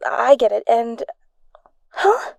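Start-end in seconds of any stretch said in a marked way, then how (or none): 1.9-2.3 surprised. Acted. Friend hears an unexpected yes.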